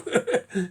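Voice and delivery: mock snicker of a postal worker; mimicked mocking laugh. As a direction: laugh at the customer behind his back. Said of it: "they'll go".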